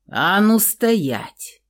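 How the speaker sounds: slow loud menacing order; thundering command. Acted. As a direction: stop her dead with it. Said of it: "громыхнул Михаил уже почти страшно".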